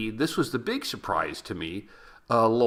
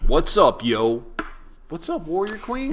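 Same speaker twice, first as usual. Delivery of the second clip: hyped greeting; 6 semitones higher, 5 dB louder than usual. Acted.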